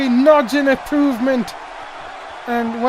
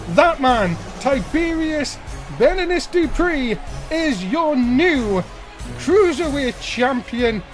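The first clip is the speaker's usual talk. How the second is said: ring announcer; slower than usual. Acted. Announcer style repeat.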